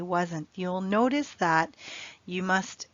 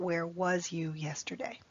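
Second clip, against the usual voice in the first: whispered wrong version; 6 dB quieter than usual. Shown as a demonstration. Teacher marks the wrong form.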